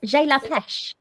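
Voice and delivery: J'ai la pêche said slowly with English vowels; careful schoolbook French, J'ai la pêche; English accent in French. Shown as a demonstration. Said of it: "is my best French".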